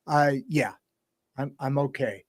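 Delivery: soft, deflecting "I'm okay"; a hollow, quiet brush-off; subdued reassurance. Retold or imitated. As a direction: play down the pain in a soft voice. Suicidal friend answers quietly.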